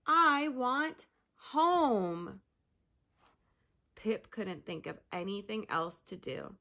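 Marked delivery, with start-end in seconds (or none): 0.1-2.4 wailing. Acted. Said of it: "she wailed".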